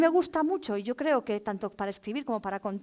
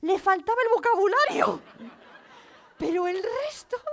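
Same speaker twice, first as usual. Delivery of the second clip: laughing through the words, higher; 7 semitones higher, 4 dB louder than usual. Real, not acted. Storyteller recalling the funny teen, laughing. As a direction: giggle while you speak. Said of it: "estaba llorando de risa".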